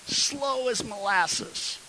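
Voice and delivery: high, dragged-out words; drawn-out slowness. Shown as a demonstration. Telling congregation about the crawling line, drawn out slowly.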